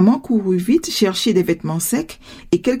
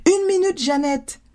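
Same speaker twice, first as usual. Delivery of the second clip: calling back; 8 semitones higher than usual. A narrator's reading. Mother gives daughter her own answer, calling back. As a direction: call back a put-off in high voice. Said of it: "elle cria".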